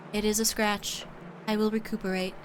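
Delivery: stately angelic character voice; measured, formal, unhurried; Atir voice. Acted. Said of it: "I like doing her voice".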